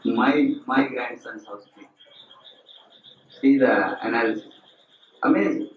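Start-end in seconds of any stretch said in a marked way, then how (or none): 0.0-1.9 put-on loud, slow scolding old relative; mock scolding. Elder scolding a girl over keeping house, loud and slow. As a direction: scold her slowly and loudly over the grandson's house.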